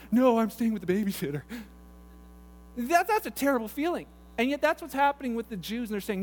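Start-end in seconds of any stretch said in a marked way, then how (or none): 0.1-1.4 put-on kid refusing. Kid refusing his dad.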